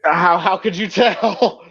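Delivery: slow, tearful question; really choked-up stammer. Real, not acted. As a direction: ask haltingly through a tight throat. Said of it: "the sound of you being choked up".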